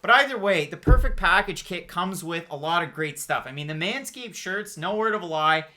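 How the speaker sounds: upbeat sponsor read, salesy pitch. Acted. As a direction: sell it like a podcast ad. Host reads a sponsor ad.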